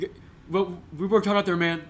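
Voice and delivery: a hint of a gruff coach after a loss; Dan Campbell impression. Podcaster doing the Lions coach after a loss, a light coach voice. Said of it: "That's my Dan Campbell impression".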